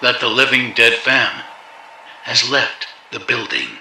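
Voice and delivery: Concert announcer. Acted. Announcer closing line.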